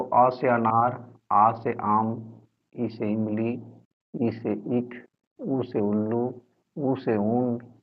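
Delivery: measured letter-and-word drill; primer recitation. Shown as a demonstration. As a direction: recite each pair evenly, pausing between pairs. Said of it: "इस तरह से लिखा जाता है और पढ़ा भी जाता है". (ककहरा रटाने जैसा ठहर-ठहरकर पाठ)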